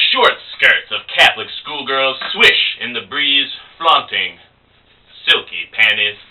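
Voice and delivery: lightly pompous poetic recital; pretentious barroom poet with deliberate pauses; would-be smart guy. Acted. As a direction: savour each phrase to impress. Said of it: "he's trying to look smart".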